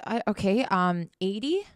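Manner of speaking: slow, unsure upward lilt on eighty; hesitant question. Retold or imitated. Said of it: "And I said".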